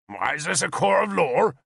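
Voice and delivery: indignant objection pitched high; objecting. Acted. Owain objecting to the king in the hall, indignant. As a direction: protest the whole idea. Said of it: "Owain objected".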